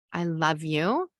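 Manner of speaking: calm I love you. Shown as a demonstration. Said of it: "you're calm".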